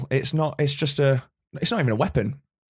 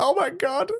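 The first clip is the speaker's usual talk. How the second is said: fangirly squeal. Retold or imitated. Fan recalling a reply to their tweet, mock fangirly. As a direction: imitate a starstruck fangirl, very high. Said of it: "proper fangirly".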